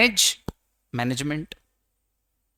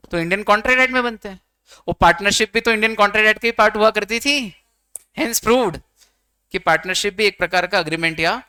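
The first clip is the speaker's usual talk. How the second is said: triumphant conclusion; 3 semitones higher, 4 dB louder than usual. Real, not acted. Teacher building to triumphant conclusion.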